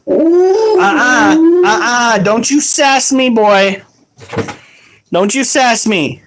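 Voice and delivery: sassy parent scolding; mock scold, don't-you-sass-me; fake calm angry parent.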